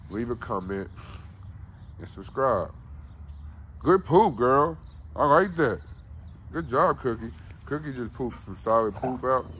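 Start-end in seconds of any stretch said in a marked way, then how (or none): 3.8-7.0 excited dog praise. Real, not acted. Owner praising his dog for a good poop, high and excited. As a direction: cheer the dog on like she did something great.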